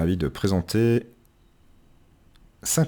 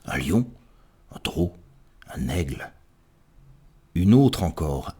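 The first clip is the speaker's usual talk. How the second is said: measured storytelling in verse with deliberate pauses; mock-solemn tale, each detail set apart; poem recitation. Reader telling of a pigeon at the cathedral, measured poetic recitation.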